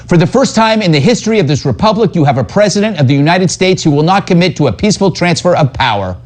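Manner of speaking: high, fast parody of a pundit; rushed mock-alarmed quote. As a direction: rattle it off high, mocking the alarm. Parodies pundit quote before clip.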